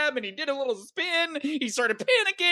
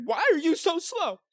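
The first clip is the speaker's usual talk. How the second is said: passive-aggressive; 5 semitones higher than usual. Retold or imitated. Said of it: "in a passive-aggressive way".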